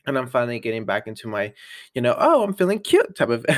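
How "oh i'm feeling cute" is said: high, laughing, self-pleased "feeling cute"; hammed-up cute confidence; playful mock sass. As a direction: tease yourself with a giggle. Mock self-hyped quote.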